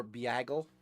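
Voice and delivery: "biagle" with an ee-ah start; biagle mispronounced. Shown as a demonstration. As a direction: stretch bagel into "biagle". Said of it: "Or biagle".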